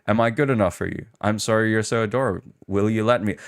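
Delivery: quick, breathy mock asmr voice; lightly imitating a flirty asmr roleplay; whispered asmr role play. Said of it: "this is all A S M R roleplay".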